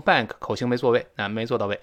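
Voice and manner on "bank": BANK said with a lazy half-formed vowel; mistaken pronunciation. Shown as a demonstration. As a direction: mimic a learner's BANK, mouth not fully open. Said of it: "好多人把它读成bank".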